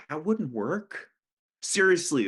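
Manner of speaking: high, loud seriously; drunken insisting. Acted. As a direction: plead it out loud.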